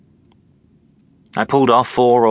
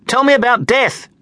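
high, urgent yelped demand; yelping; 4 dB louder than usual. A narrator's reading. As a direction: demand it in a high-pitched yelp. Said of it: "she yelped".

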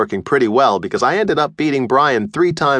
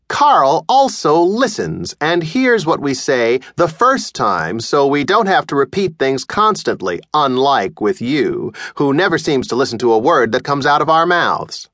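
mother reproaching her son; pointed mom; 2 semitones higher than usual. Acted. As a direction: needle him with the comparison. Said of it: "My mom sighed".

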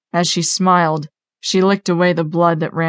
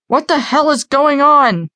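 high-pitched alarmed shout; raised, higher voice demanding answers; shouting security guard; 9 semitones higher, 4 dB louder than usual. A narrator's reading. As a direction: call out sharply from across the hall. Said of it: "one of the security guys shout".

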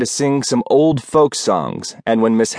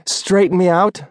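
much higher, scornful echo; snorting scorn; 8 semitones higher than usual. Acted. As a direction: toss the phrase back in disbelief. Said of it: "Rose snorted".

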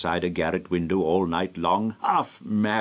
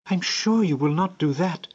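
put-on high, sure child's voice; a child putting her trust in the old gentleman; trusting little girl; 11 semitones higher than usual. A narrator's reading. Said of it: "said the little creature".

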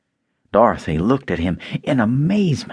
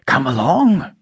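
hearty Scarecrow; 5 semitones higher than usual. A narrator's reading. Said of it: "said the Scarecrow heartily".

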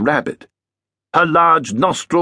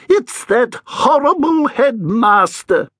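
grumbling ghost Edith; 12 semitones higher than usual. Acted. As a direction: grumble it out as a cranky old ghost. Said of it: "she said".

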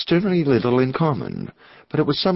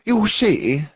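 high-pitched, mildly nervous opening; a touch of nervous eagerness, pitched up; nervous clergyman; 11 semitones higher, 3 dB louder than usual. A narrator's reading. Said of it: "in his oddly nervous way".

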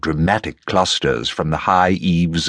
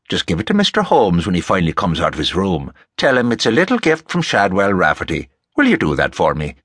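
lightly voiced folksy Irishman; genial Rafferty; faster than usual. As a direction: hand over an errand in a friendly way. Voices Rafferty giving instructions.

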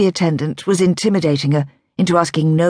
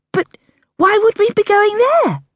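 hushed. A narrator's reading. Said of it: "her voice hushed".

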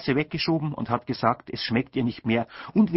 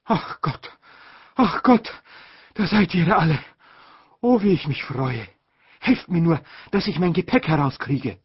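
put-on high, loud gushing old aunt; an aunt crying out in theatrical delight; aunt's exclamation; 6 semitones higher, 4 dB louder than usual. A narrator's reading. Aunt greeting the family on the platform, high and gushing. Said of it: "hat geschrien".

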